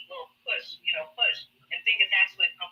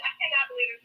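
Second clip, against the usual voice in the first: disbelief; faster than usual. Retold or imitated. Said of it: "I'm like".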